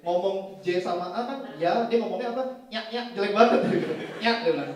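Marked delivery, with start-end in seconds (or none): 2.7-3.0 NYAK squeezed through the nose; mock a nasal accent on "nyak, nyak"; nasal imitation. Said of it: "Dia ngomongnya sengau". 4.2-4.4 "Nyak" pushed through the nose; mock nasal "Nyak"; nasal imitation. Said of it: "Dia ngomongnya sengau".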